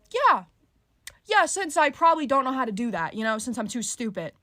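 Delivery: loud sarcasm. Retold or imitated. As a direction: throw it back at him with heavy sarcasm. Sarcastic reply to condescending man.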